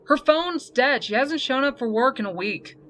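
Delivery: indignant boss; exasperated complaint. A narrator's reading. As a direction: complain like a put-out supervisor. Gruff nurse complains about missing worker.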